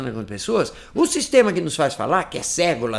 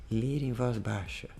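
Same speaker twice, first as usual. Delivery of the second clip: "ler em voz baixa" said much softer and a bit slower; low voice; 4 semitones lower, 10 dB quieter, slower than usual. Shown as a demonstration. Teacher shows students how to read softly, low voice. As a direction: drop the volume right down on "ler em voz baixa". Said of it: "ler em voz baixa e fala assim".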